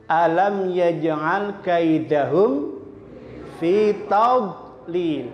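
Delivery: slow, careful Quranic recitation. Shown as a demonstration. Teacher reading the example verse to the class. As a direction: recite it slowly and deliberately. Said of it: "teacher models verse".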